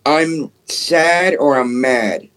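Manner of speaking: slow, otherworldly spirit-box voice; eerie doll voice. Retold or imitated. Retelling what the haunted doll said, slow and eerie. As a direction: drag the words out like a ghostly child.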